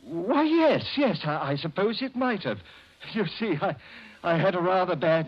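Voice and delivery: startled and flustered. Acted. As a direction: caught off guard, scramble to recover. Murderer startled by police question.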